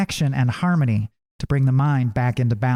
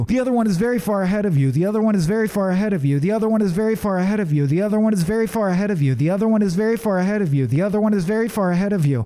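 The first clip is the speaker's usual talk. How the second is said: talking rock; 5 semitones higher, faster than usual. Acted. Talking rock repeats one line.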